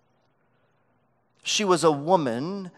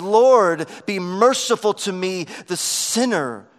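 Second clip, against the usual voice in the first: a loud cry on Lord, then a humbled plea; lightly voiced penitent sinner; a hint of a tax collector crying out; tax collector's plea; 4 dB louder than usual. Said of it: "beat his breast and said".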